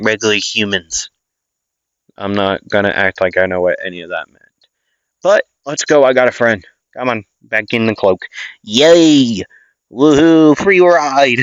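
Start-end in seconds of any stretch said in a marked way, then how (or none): 5.2-11.4 put-on cheering child.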